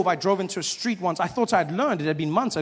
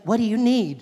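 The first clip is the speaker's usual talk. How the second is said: higher voice, a hint of phone assistant; lightly voiced Siri; 4 semitones higher than usual. Phone assistant greeting owner, lightly imitated Siri. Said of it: "She's like".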